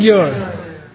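gyur with a slight nasal before the g, rising; gyur: add a light n before the g, meaning became; Tibetan gyur with prenasal. Shown as a demonstration. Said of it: "the second one has a slight prenasal".

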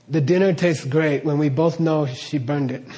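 dry, mock-sweet compliment; sarcastic. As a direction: praise it while meaning the opposite. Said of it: "Like I'm being sarcastic".

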